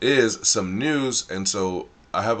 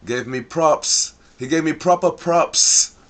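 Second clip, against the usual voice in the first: louder and higher, proud hype; excited; 8 semitones higher, 7 dB louder than usual. Real, not acted. Host bragging to viewers, excited hype. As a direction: crow about the shout-out, pumped up. Hyped about getting props.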